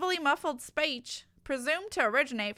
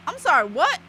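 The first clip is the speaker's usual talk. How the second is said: panicked assistant; 5 semitones higher, 8 dB louder than usual. Acted.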